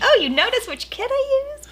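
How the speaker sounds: thrilled, high and bright-eyed; delighted high voice. Acted. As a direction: gush like a flattered prop maker. Acted delighted prop maker.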